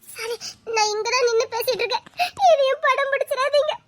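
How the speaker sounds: sarcastic through sobs, rising at the end; hurt, mocking outburst through tears; bitter tearful jab. She lashes out through tears.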